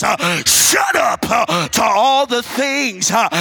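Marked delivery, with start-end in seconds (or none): 0.7-1.2 preacher shouting "Shut up" for the congregation to echo. Shown as a demonstration. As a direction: yell it at the storm. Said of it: "somebody ought to just shout right at your house".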